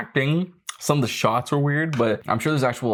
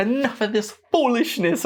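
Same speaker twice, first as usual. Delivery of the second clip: put-on West Indian accent, pitched very high; 11 semitones higher than usual. Imitating how a woman said her line, with a west indian accent. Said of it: "like a West Indian accent".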